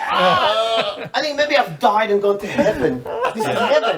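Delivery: laughing, rising high with glee; giddy laughing disbelief; giddy delight. Retold or imitated. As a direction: gush like it's the best night ever. Fantasising about a dream night.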